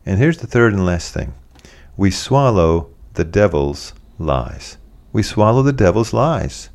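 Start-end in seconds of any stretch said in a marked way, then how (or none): 2.0-4.8 slow, weighty. Shown as a demonstration. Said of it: "repeated line".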